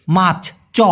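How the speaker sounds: মার্চ said with a clear ch, not s; clear ch sound. Shown as a demonstration. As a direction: stress the চ in মার্চ. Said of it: "স কিন্তু না". (মার্চ শব্দে স্পষ্ট চ, স নয়)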